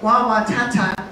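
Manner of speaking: lightly imitated toddler babble; little baby talk. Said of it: "He's sitting in his high chair".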